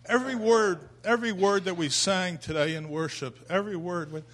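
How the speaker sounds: high and loud, full of feeling; fervent. Real, not acted. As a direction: cry out each every word. Moved by worship words.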